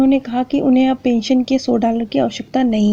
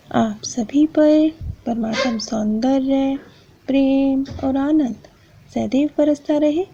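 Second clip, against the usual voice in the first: blessing. Acted. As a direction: bless the listeners gently, unhurried. Closing blessing to viewers.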